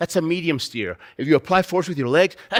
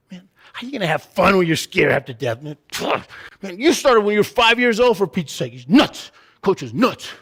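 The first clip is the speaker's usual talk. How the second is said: exasperated outburst; 3 semitones higher, 4 dB louder than usual. Acted. Acted outburst about coach's advice.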